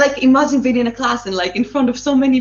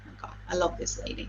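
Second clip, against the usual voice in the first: breathy adoration; 3 semitones lower, 14 dB quieter than usual. Real, not acted. Gushing over her idol.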